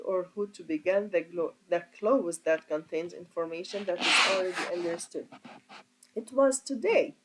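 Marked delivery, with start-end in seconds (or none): 6.1-7.1 "today" lifted high and louder; teacher lands hard on "today"; stress on today. Shown as a demonstration. Grammar teacher stressing "today" for the class. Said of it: "Here, "it was today" the emphasized piece".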